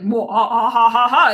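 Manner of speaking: loud mock villain cackle, building up; Doctor Evil laugh. Imitating an angry man cackling like Doctor Evil. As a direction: cackle like a movie villain plotting. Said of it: "like Doctor Evil".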